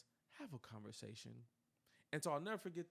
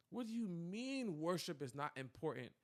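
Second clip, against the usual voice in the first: incredulous outburst; 3 semitones higher, 7 dB louder than usual. Retold or imitated. Mock outrage at pastor.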